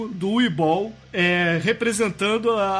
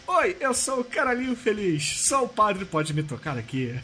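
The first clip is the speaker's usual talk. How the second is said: dwarf's voice. Retold or imitated. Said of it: "Com a voz do anão do filme".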